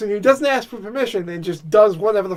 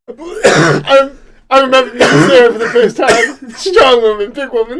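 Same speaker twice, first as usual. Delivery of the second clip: Trump impression; 3 semitones higher, 6 dB louder than usual. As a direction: play Trump whining about Sarah. Continues Trump riff.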